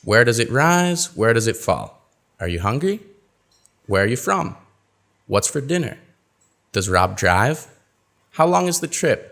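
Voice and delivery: rises on yes-no, falls on wh-questions; teacher modelling intonation; clear question intonation. Shown as a demonstration. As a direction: model the tunes. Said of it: "listen to my intonation".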